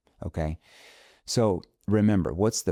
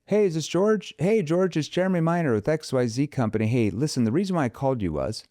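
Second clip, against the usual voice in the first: cheesy sales-call greeting, pitched way up; pushy salesman opener; 8 semitones higher than usual. Shown as a demonstration. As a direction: sound like an overeager telemarketer. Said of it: "There's the approach of".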